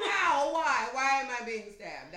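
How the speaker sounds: loud, high, incredulous questions; exclaimed disbelief. Acted. Playing a baffled victim of extreme violence, loud disbelief. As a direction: cry out in baffled outrage. Acts out baffled outrage at stabbings.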